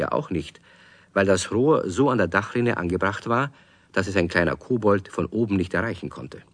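put-on calm storyteller reading to children; story narration. A narrator's reading. Narrator tells the children the story, calmly. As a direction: tell it gently to kids.

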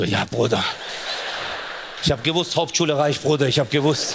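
a hint of a cocky homeboy; lightly voiced smug bro. Street guys cheering they were right, smug gloat.

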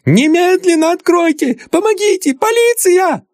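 very high, panicked cries for help; girl screaming for help; hysterical screaming. Acted. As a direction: shriek for the police. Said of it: "в истерике вопил".

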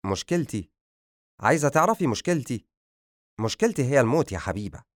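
mildly agitated, pitch lifting on the repeated question; a touch of nervous exasperation. Acted. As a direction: answer with restrained, nervy irritation. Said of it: "تحرك أدهم بعصبية وقال".

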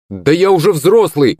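high indignant shout from the corner. A narrator's reading. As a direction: yell it in protest. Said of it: "выкрикнул Акулыч из угла". (выкрикнул из угла)

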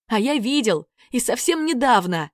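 гордо; proud. Acted. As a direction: brag that you've seen it. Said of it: "гордо сообщил Санька".

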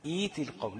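ايت القوم begins with a long ee; long i reading. Shown as a demonstration. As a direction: start ايت with a long vowel. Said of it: "هتقول إيه؟". (ايت القوم بياء مد)

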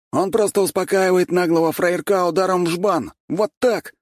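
high, cocky street-tough swagger; gopnik voice. A narrator's reading. Sweet boy faking a gopnik to newcomers, cocky swagger. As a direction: play a fake tough guy from the block. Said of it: "Голос Валентина тут же стал нормальным".

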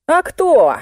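high sharp retort; snapping back. A narrator's reading. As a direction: snap it back at her. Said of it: "огрызнулся Виноградов".

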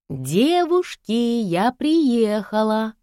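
high, slow, drawn-out call. A narrator's reading. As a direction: sing it out to the whole house. Calling out on arriving home. (высокий протяжный зов)

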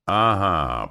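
long, stretched, loud uh-huh; drawn out. A narrator's reading. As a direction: stretch the vowels out as it dawns. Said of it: "протянул я".

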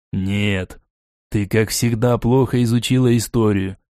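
mildly rueful; sad. Acted. Foger scolding Lona's ignorance, mildly sad. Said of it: "печально покачал головой Фогер".

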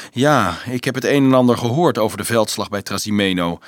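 understated, offhand reply; seemingly indifferent. Acted. Leonardo nods about the battle, seemingly indifferent. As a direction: feign mild indifference to the news. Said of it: "schijnbaar onverschillig".

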